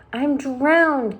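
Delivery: high, loud gasping; spluttering out water; gasped. A narrator's reading. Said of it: "gasped the old green grasshopper".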